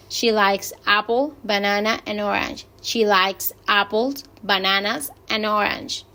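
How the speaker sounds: "apples" and "bananas" rise, "orange" closes the list; mixed intonation. Shown as a demonstration. Teacher modelling a list for students, mixed rising-then-falling intonation. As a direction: climb on each fruit until "and orange" finishes. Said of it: "vamos a ver la mixta".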